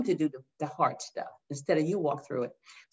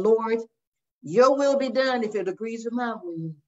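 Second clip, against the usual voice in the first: self-serving prayer; 4 semitones higher than usual. Shown as a demonstration. Mocking a prayer that only wants its own way, wry. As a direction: pray it like you're cutting a deal. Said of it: "And a difference between that and".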